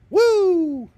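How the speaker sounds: high, loud whoop; whooping cheer. Real, not acted. Streamer cheering after a funny story, whooping. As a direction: let out a big whoop.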